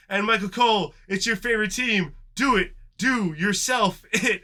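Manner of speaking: high, loud, excited announcer voice. Retold or imitated. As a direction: hype it up, last words very slow. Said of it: "Barry's just like".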